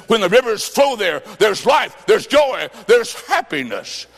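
ringing, half-sung preacher's cry; fervent scripture proclamation. Acted. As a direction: lift the verse like a hallelujah.

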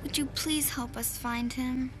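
hesitant, soft plea to God; hushed, heartfelt praying; quiet prayer. Acted. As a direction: pray haltingly, with long pauses. Praying alone for help.

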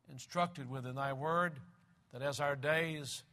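low-key, reverent prayer voice. Real, not acted. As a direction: pray aloud to the Father, gently subdued. Leads an opening prayer.

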